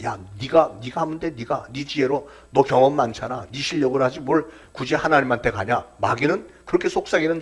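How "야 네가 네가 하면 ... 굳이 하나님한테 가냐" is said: lightly voiced tempter, softer and casual; devil's whispering temptation. Devil tempting a believer to rely on himself, lightly acted coaxing. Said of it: "마귀가 속삭이는 말입니다".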